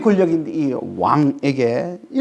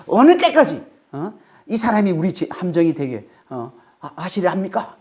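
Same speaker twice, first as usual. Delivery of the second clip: servants scolding their king in alarm; rebuking the king. Acted. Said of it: "자기 왕을 지금 꾸짖는 것처럼".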